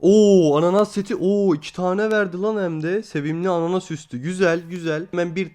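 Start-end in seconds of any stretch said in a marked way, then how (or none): 0.0-3.0 excited. Real, not acted. Pineapple set drops from crate.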